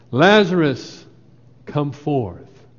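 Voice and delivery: loud cry. Acted. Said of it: "cried out in a loud voice".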